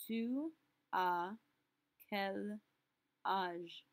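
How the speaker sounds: "Tu as", "quel", "âge?" each split by pauses; word by word. Shown as a demonstration. Teacher splitting the question word by word for students. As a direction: break the question into pieces. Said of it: "we're going to ask".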